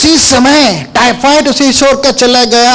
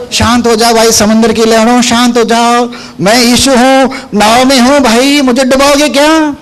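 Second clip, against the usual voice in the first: mock pleading. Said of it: "उसने ऐसा नहीं कहा".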